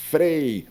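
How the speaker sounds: "frei" drawn out with force; "frei" held as the strong syllable; stressed root. Shown as a demonstration. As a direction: lean slowly on "frei". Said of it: "porque o forte é o radical".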